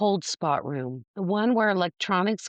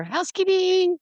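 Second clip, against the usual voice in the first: high, loud comic shout; movie housekeeping yell; 5 dB louder than usual. Retold or imitated. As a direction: belt it like the movie gag. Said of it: "Chris Farley. And he knocks on the door".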